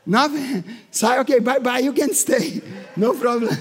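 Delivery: sheepish, laughing backdown; mock timid retreat. Preacher retelling backing away from demons, sheepish and laughing. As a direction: back off nervously, half laughing. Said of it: "I said".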